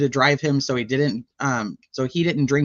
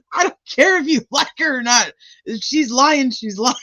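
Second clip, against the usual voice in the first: high, insistent mock voice of a friend who won't budge; high teasing voice of a stubborn friend; 8 semitones higher, 3 dB louder than usual. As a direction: play the know-it-all friend. Voicing co-host Sleuthy's stubborn reply.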